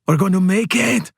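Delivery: hushed yes rising to a high cheer; triumphant inner voice, held in then lifting; exultant thought. Acted. Pelayo to himself as he escapes through the crowd, exultant. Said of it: "and Pelayo thinks".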